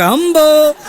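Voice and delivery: dazed blank reply. Retold or imitated. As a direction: answer every question with the same empty "હંબો.". Wiped-memory man answers only this.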